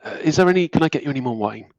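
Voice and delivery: hesitant, apologetic helper stammering; mild flustered servant voice; nervous Thomas. Acted.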